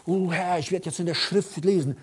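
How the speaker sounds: strained parody of pious reading, building to a loud wail; mock cramped piety. Preacher mocks forced Bible reading, cramped and straining. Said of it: "das ist nichts krampfhaft".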